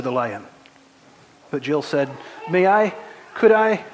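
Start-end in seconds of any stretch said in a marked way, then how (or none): 2.5-3.8 put-on high, loud, pleading girl's voice; scared girl. Jill asking the lion to go away, high frightened pleading. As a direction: beg nervously for privacy.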